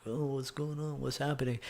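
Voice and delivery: small hushed mock-worried questions; hushed jungle-wanderer voice. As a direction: voice wary guys in a jungle, very softly. Voicing wary dudes in jungle.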